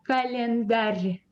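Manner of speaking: календарь said slowly with a softened final r; soft final r. Shown as a demonstration. Teacher modelling календарь for students, slow with soft final r. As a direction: draw out календарь, palatalizing the last r. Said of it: "It is soft".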